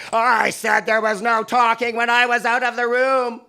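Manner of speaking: put-on furious high shout at a child; teacher screaming. Grade five teacher screaming at a pupil, loud and furious. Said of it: "screaming in my angry, terrified face".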